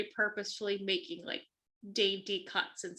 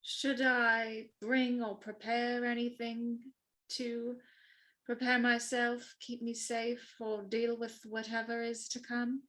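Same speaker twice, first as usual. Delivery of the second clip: careful, slightly halting formal question; a hint of composed deference; lightly voiced dutiful servant; 3 semitones higher, slower than usual. Bridget asking the Duke how to prepare, mildly deferential.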